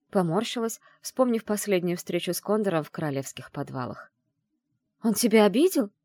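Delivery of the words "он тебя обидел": loud, high alarmed question; a raised, alarmed mother's cry; alarmed exclamation. Acted. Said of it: "воскликнула мама".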